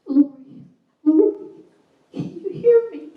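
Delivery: high, loud pleading to wake her; rising, loud and anguished plea; desperate calling. Retold or imitated. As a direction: call into her ear, begging her to answer. Father calling to dead daughter.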